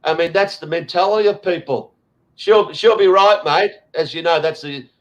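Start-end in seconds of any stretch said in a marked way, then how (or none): 2.3-3.7 laid-back Ocker Aussie drawl, lightly done; Ocker Aussie accent. Retold or imitated. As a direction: imitate a carefree Aussie Ocker, a hint of it. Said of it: "the Aussie, um, you know, Ocker".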